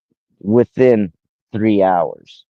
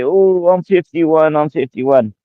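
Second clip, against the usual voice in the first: higher, slower whiny mimic of Kelly; mocking Kelly; 7 semitones higher than usual. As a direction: parrot her excuse in a lightly put-on high voice. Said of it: "you say".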